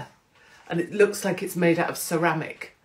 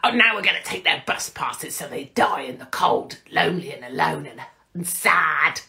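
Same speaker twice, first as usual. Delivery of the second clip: mock Rachel Reeves. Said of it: "I don't know if she speaks like that".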